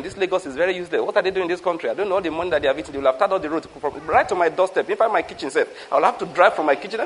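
soft, muttered grumble about the roads and government; grumbling complaint. Retold or imitated. Driver stuck in Lagos traffic, softly grumbling. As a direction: grumble it half under your breath, fed up. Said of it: "You complain".

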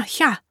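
short high hya yelp. Retold or imitated. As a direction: yelp it like a fighter. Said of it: "She didn't sound like that".

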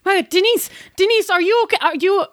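mildly panicked friend calling out; alarmed Helga. Acted. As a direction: burst in worried about her friend. Helga rushes in, worried.

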